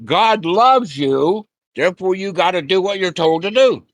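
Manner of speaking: mock a preacher laying down the rule; preachy quote. To the students, mocking a preacher's demand. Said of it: "quality of Christianity".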